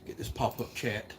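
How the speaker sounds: breathing heavy, winded. Real, not acted. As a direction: talk while catching your breath. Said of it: "I'm out of breath".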